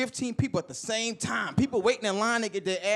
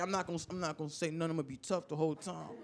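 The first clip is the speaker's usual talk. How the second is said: fast, much softer inner thoughts; 5 semitones lower, 11 dB quieter, faster than usual. Retold or imitated. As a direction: think it silently to yourself. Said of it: "this is all in my head".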